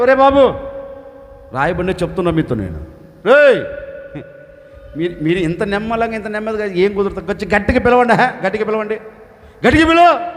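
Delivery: mocking taunt. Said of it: "హేళన చేస్తున్నారు".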